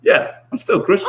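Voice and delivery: laughing. Real, not acted. Admits it while laughing.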